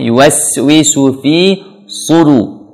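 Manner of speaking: slow "yuwaswisu fi sudu", long clear I in FI; full kasrah. Shown as a demonstration. Teacher modelling recitation, full kasrah on "fi". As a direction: stretch the I of "fi" before "sudu". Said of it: "fi sempurnakan kasrahnya".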